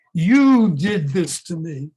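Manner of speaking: husband yelling at his wife, loud and slow; mock scream. Husband exploding at his wife after years of resentment, yelling. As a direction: hurl it at her like an accusation. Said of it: "he screams at his wife".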